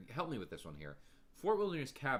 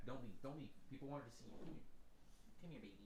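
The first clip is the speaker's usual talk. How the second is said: coaxing the dog; 12 dB quieter, much faster than usual. Real, not acted. Coaxing his dog to stay.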